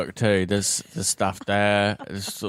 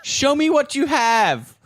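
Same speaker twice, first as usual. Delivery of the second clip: dramatic movie voice; 4 dB louder, slower than usual. Pretend. Acted movie-style scene.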